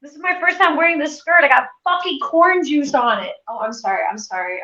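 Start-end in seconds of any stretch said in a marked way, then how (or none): 0.0-3.3 exasperated. Real, not acted. Upset about skirt stained.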